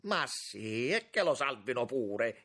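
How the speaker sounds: forceful, mildly impatient exclamation; exclaimed. A narrator's reading. Young man concedes they may save Selmi, exclaiming. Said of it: "esclamò Giulio Auriti".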